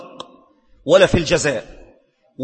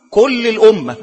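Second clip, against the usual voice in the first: louder forceful call, pressing the point home; emphatic loud declaration; 3 semitones higher, 7 dB louder than usual. Real, not acted. Emphatic repeated answer in sermon. (تأكيد بصوت عالٍ)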